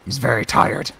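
a lightly put-on British accent, teasing; playful Cockney-tinged voice guarding the skeleton; mock British accent. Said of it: "through your change of accent".

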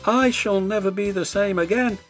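high, mildly sad lament; sad little engine. A narrator's reading. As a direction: sigh over worn wheels. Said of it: "he thought sadly".

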